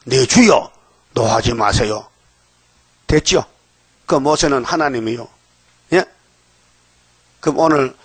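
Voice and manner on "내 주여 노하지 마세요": mock-startled cry, then dropping lower; startled pleading. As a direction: act out a startled plea for mercy. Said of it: "아론이 깜짝 놀라가지고".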